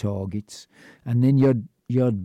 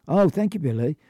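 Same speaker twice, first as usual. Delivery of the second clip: grateful teacher; 6 semitones higher than usual. Retold or imitated. Teacher thanks the milk monitor.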